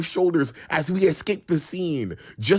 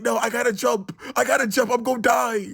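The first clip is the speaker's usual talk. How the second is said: frantic shout; 9 semitones higher, faster than usual. Retold or imitated. Friend on the wall yelling he must jump, high panic. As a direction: scream that you have to jump.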